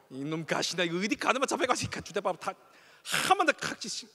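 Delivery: hammed-up furious Busan dad; mock Busan dad rant. Shown as a demonstration. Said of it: "이렇게 하시겠어요?".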